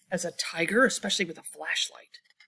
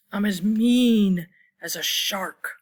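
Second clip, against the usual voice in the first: mean; 5 dB louder, slower than usual. Acted. Reading the mean shark line.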